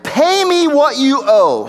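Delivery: a servant throttling a debtor, slow and menacing; harsh demand. Retold or imitated. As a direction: squeeze the debt out of him. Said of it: "he began to choke him".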